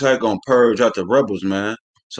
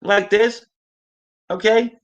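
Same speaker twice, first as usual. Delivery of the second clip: much higher thin office-guy voice; mock Bob from accounting; 9 semitones higher than usual. Shown as a demonstration. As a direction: pitch it up like a timid clerk. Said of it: "He didn't sound like Bob from accounting".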